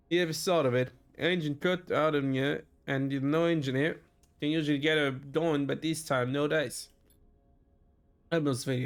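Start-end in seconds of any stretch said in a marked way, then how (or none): 0.1-6.9 put-on muddled, lightly Scottish-like accent; terrible put-on accent. Elma explains her dead engine, in a badly put-on accent. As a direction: attempt an unplaceable accent, badly. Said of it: "already excusing myself for that terrible accent".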